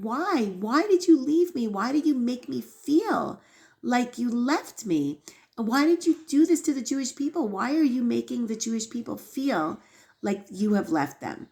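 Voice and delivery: imitating a pleading protest to God; retold yelling plea. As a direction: cry out why, half yelling. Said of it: "kind of yelling at Hashem".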